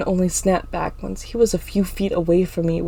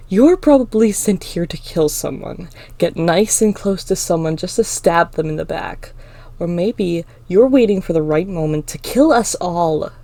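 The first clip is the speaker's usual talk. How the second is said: louder, pointed accusation; accusing; 5 dB louder than usual. Acted. Clinton warns everyone about the demon, accusing. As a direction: press the accusation for onlookers.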